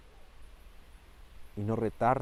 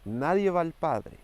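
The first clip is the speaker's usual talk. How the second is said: slow, loud and much higher, a ringing call; forceful proclamation; 7 semitones higher, 6 dB louder, slower than usual. Acted. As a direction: cry it out slowly to the congregation. Preacher proclaims Jesus' words.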